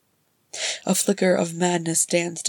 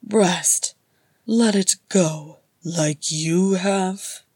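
bitter; 5 dB louder, slower than usual. A narrator's reading. Balin bitter retort.

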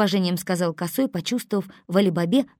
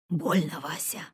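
sobbing; 5 dB quieter than usual. A narrator's reading. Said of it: "всхлипнул он".

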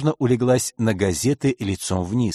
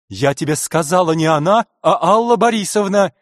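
возмущённый окрик; 6 semitones higher, 5 dB louder than usual. Acted. Директриса снова поправляет.

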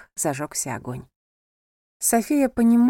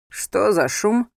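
slow, lightly lowered male voice; man's voice; 3 dB louder, much slower than usual. A narrator's reading. Angel comes out to check the noise, slow man's voice. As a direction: drawl it out calmly.

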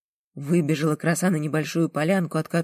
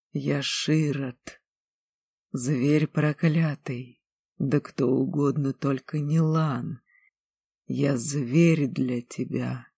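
tender confession; slower than usual. Acted. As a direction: confess it with slow sorrow. Lan confesses, slow and low.

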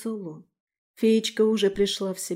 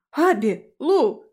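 louder, higher shout of names; 5 semitones higher, 6 dB louder, much slower than usual. A narrator's reading. Daphne and Frey find the injured girls, alarmed shout. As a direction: shout in shock on finding them. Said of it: "выкрикнули мы одновременно".

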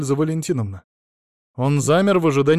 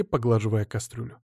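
ordinary delivery, nothing marked

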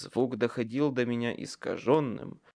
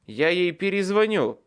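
forced out; 6 semitones higher, 6 dB louder than usual. A narrator's reading. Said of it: "выдавил я из себя".

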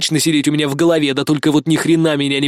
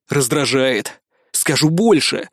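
angry growl; slower than usual. Acted. Hero growls his answer to Amanda, angrily. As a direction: growl it out in anger. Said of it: "злобно прорычал я".

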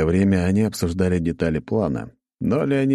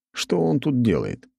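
ordinary delivery

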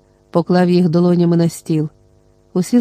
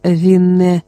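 porcelain doll voice. A narrator's reading. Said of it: "знову голос порцелянової ляльки".

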